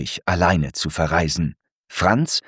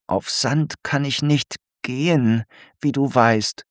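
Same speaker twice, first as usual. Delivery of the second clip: higher small snail voice, a touch fussy; a prim little snail explaining herself; snail Alberta; 5 semitones higher than usual. Acted. Alberta tells Franz she can't walk on sand, higher fussy snail voice.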